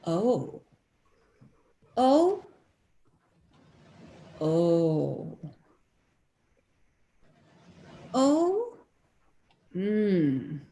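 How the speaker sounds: rising and falling ominous "Oh"; doctor growing alarmed, pitch jumping; worried doctor's ohs. Retold or imitated. Doctor examining her belly, alarmed ohs.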